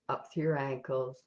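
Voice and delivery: calm, even meditation guide with long pauses; guided meditation. Real, not acted. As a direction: lead them gently step by step, leaving silences between instructions.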